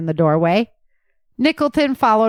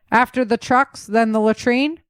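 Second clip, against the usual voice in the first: commanding; 4 semitones higher than usual. Acted. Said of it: "Cole commanded".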